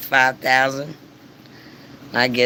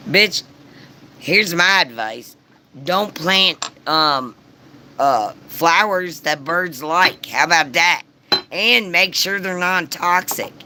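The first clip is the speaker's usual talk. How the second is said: higher and louder scolding; indignant rant; 5 semitones higher, 3 dB louder than usual. Real, not acted. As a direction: tell her off like she's right there. Ranting advice at the neighbor.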